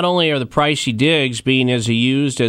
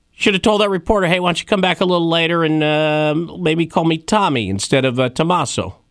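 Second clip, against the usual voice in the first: put-on Brooklyn accent; casual advice with a Brooklyn lilt; 4 semitones higher than usual. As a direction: talk like a guy from Brooklyn. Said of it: "I'm doing a Brooklyn accent".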